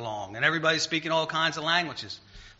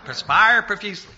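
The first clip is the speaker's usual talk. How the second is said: higher, louder mock-proper phrase; imitating correcting mom; 5 semitones higher, 8 dB louder than usual. English-teacher mom correcting her son's speech, mock-proper. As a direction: play Mom drilling the proper wording. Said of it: "Mom would say".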